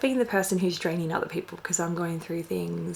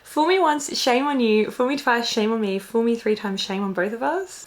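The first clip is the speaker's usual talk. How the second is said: reading it out; 3 semitones higher, 4 dB louder than usual. Real, not acted. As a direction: read the saying out with emphasis. Reading the found saying aloud.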